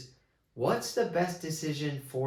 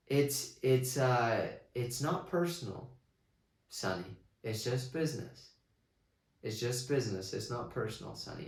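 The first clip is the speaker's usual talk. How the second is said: calm quiet; 2 semitones lower, 6 dB quieter than usual. Retold or imitated. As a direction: say it softly, like pure business. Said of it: "He's quiet".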